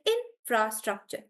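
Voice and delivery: infrastructure slowly broken into syllables; sounding out. Shown as a demonstration. Teacher showing how she tests a word, slow syllable-by-syllable infrastructure. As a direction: sound out infrastructure piece by piece, drawn out. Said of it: "I actually sound it out".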